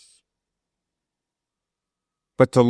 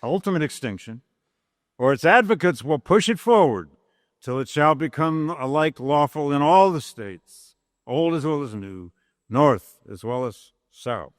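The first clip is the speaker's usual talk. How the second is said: formal oratory reading; 3 semitones higher than usual. Acted. Lecturer reading Lincoln's speech to class, measured oratory. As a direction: read it as Lincoln addressing a convention. Reads the House Divided speech.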